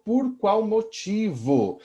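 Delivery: por qual motivo, spoken slowly and deliberately; teacher slowing down to stress por qual motivo; slow stressed substitute phrase. Shown as a demonstration. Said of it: "Pode ser substituído, gente, por".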